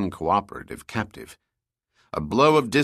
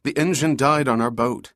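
higher, desperate plea; pleading; 5 semitones higher than usual. Acted. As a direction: beg for help, voice rising. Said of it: "Summer pleaded".

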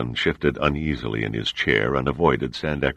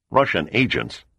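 startled disbelief; 7 semitones higher than usual. A narrator's reading. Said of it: "in startled and total disbelief".

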